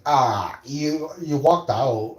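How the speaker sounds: high, slow, loud astonishment; mock shocked teachers. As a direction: imitate appalled disbelief. Teachers' shocked reaction, acted.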